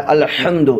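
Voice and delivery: الحمد with ح breathed from mid-throat. Shown as a demonstration. Teacher shows the correct pronunciation, throaty ح in الحمد. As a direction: say الحمد, pushing the ح out from the middle of the throat. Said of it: "بیچ حلق سے آپ ہا نکالیں گے".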